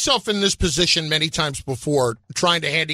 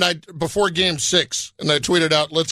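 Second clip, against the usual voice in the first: sarcastic; 2 semitones lower than usual. Retold or imitated. Host quoting his own pre-game tweet, sarcastic. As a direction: read the cheer with understated sarcasm. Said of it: "the level of sarcasm in your voice".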